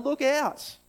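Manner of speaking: loud, high call of look out; yelled warning. Shown as a demonstration. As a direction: shout it to stop someone at a cliff edge. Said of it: "you call out to them".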